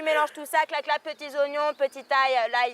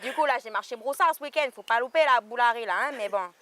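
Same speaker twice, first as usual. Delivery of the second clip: put-on lightly done Caledonian bush accent, lower; broussard accent; 3 semitones lower than usual. Actress pitches her play in mild broussard accent. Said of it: "Avec l'accent broussard".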